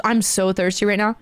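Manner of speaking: low, fixated creepy voice; eerie stranger. Retold or imitated. Man who doesn't blink to caller, eerie. Repeats the unblinking man's line.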